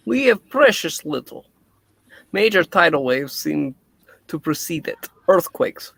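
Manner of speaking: put-on light Russian accent scientist; a Russian doctor, lightly voiced. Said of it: "maybe my Russian accent will go too".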